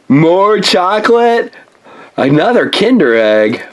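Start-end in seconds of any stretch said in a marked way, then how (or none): 0.1-1.5 drawn out. Acted. Laughing about more chocolate.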